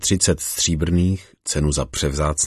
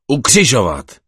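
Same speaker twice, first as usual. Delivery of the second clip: higher, louder crowd shout; 7 semitones higher, 7 dB louder than usual. Acted. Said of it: "zvolali všichni". (hlasitý výkřik davu)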